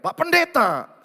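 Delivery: acted pleading call; insistent plea. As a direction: imitate a wife insistently calling on her pastor. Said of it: "Istri berkeras minta cerai".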